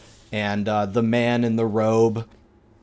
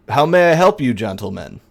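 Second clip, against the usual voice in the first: a lightly voiced courteous old man at the door; polite old host; 3 semitones higher, 4 dB louder, faster than usual. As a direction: greet the guests, pitched up at first. GM voices old vampire greeting.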